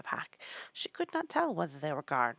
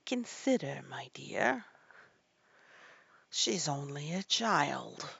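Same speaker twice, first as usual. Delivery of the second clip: timid; slower than usual. A narrator's reading. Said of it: "timidly said".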